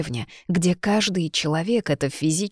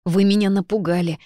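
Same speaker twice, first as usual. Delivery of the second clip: reproachful, louder outburst; 4 semitones higher, 5 dB louder than usual. Acted. Herbalist scolds the inquisitor for startling her, reproachful. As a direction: chide him for sneaking up. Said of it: "укоризненно заметила я".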